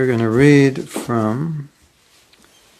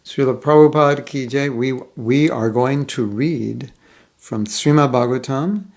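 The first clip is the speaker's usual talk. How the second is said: reading voice. Shown as a demonstration. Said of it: "I will put on my reading voice".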